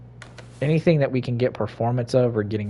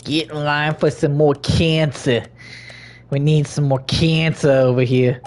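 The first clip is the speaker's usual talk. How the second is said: hawker voice; 4 semitones higher, 4 dB louder than usual. Pretend. Calling out to game characters.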